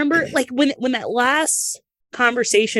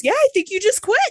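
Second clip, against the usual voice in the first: much higher voice for the kind desk lady; front desk lady; 13 semitones higher than usual. Retold or imitated. Desk lady gently confirming the wrestler quit, higher voice. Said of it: "She goes".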